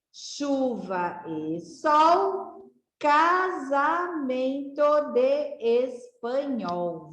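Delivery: slow, sing-song reading of a rhyme; rhyme read to children. Shown as a demonstration. Teacher reads a parlenda aloud to the class, slow and sing-song. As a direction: read it slowly so the kids can follow.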